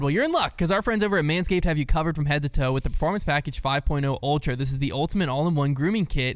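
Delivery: upbeat podcast sponsor read; scripted sales patter with punched key words. Acted. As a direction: pitch the product with lively emphasis. Reads the sponsor ad.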